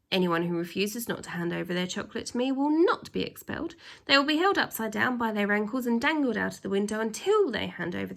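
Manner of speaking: lightly voiced pompous headmaster laying down the law; a hint of a strict, self-important headmaster; stern headmaster. Headmaster announcing his rules to the pupils, stern and pompous.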